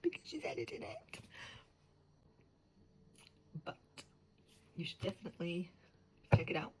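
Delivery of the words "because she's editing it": mock wonder. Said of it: "So it's like".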